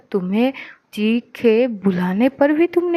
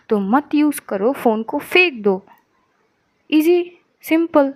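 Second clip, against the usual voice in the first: angry scolding; 2 semitones higher than usual. Acted. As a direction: lash out at her friend, ending on a hard note. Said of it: "तो तुम तो मतलब बरस जा रही हो मुझ पे".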